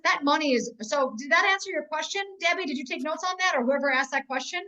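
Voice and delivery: usual speaking voice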